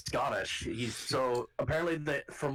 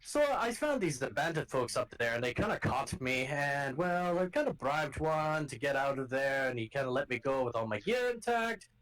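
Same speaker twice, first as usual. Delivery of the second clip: a lightly voiced Scottish-Irish accent, pitched up; gruff Scottish guard calling out to strangers; rough Scottish accent; 3 semitones higher than usual. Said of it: "Jake is Irish".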